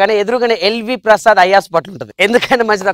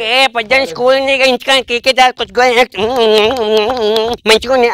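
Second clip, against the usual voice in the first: put-on slightly raised, gleeful kid chatter; happy schoolkids; 3 semitones higher than usual. Schoolkids celebrating their burning school, gleeful. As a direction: cheer like kids let off school. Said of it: "పిల్లలందరికీ full happy".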